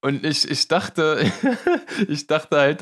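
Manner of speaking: talking through a laugh; giggling mid-sentence. Real, not acted.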